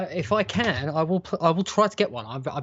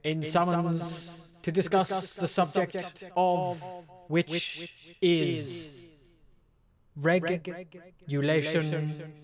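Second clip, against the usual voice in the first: town crier; 3 semitones higher, slower than usual. Pretend. Mock formal summons, closing shout.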